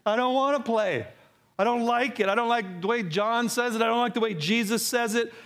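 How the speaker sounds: put-on pouting kid refusing; lightly voiced pouting child; sulky child. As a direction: whine it like a stubborn child. Voicing the unbelieving heart as child.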